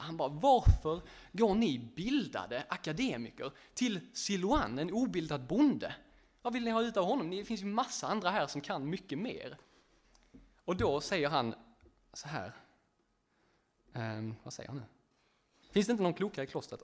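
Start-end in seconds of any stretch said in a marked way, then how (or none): 0.3-9.6 an upset monk objecting, voice raised; upprörd. Retold or imitated. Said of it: "Han blir upprörd över detta". 15.7-16.8 fast, louder indignant question; snapping at the visitors; upprörd. Retold or imitated. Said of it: "Han blir upprörd över detta".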